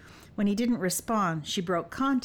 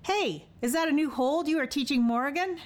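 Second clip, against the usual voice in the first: higher, teasing jab; mocking; 8 semitones higher than usual. A narrator's reading. Elfair teasing the couple caught kissing, higher mocking voice. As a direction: needle the rumpled couple with a smirk. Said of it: "A mocking voice".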